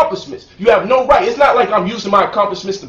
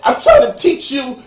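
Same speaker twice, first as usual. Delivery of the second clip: higher, laughing fake whine; mock whining; 4 semitones higher than usual. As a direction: ham up a crybaby complaint. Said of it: "Either I'm gonna cry and bitch up and say".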